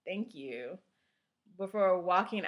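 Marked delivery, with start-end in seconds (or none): 0.1-0.8 mildly nervous, hesitant thanks; a touch of panic, with pauses between words. Acted. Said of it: "looked down at my overgarment nervously".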